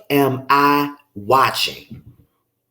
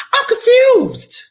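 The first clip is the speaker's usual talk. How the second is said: high, slow whispered confusion; mock whisper; 6 dB louder, slower than usual. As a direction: breathe it out in disbelief. Exasperated commentary.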